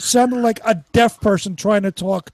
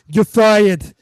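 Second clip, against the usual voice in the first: mock Trump catchphrase; 6 dB louder than usual. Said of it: "I do that in every one of my shows".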